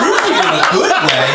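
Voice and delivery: loud mock disbelief; stunned group echo. Stunned friends echoing the wife's question, incredulous. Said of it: "dead silence. Everyone's like".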